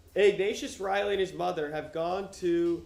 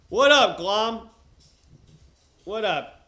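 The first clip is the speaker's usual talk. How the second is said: loud, high, happy hello to the pet; excited greeting; 5 semitones higher, 11 dB louder, slower than usual. Real, not acted. Streamer greets the pet Glom, loud and happy. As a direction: call out a big cheerful hello.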